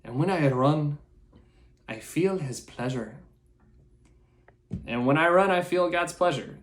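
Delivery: a self-mocking, clumsy Irish accent; hammed-up Irish brogue that swells on the repeat; bad Irish accent. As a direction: put on a rough Irish lilt for the quote. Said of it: "I'm gonna do a really bad Irish accent".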